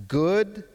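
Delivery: GOOD held high and loud; emphatic GOOD. Shown as a demonstration. Preacher shows the congregation the verse's emphatic word, GOOD stressed. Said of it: "and then this is emphatic".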